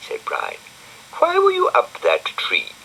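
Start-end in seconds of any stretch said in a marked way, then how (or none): 1.2-2.7 very high small snail voice; high character voice; Brian's voice. A narrator's reading.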